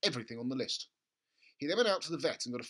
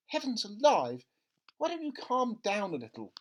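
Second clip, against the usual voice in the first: higher, mildly exasperated; a mother calming her husband, slightly higher; mother scolding; 7 semitones higher, 4 dB louder than usual. Acted. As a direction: tell him to settle down. Mother voiced in story.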